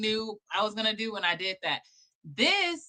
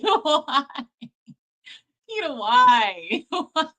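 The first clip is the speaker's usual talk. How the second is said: drawn-out whine; 4 semitones higher, 7 dB louder, much slower than usual. Real, not acted. Pleading with co-host after video.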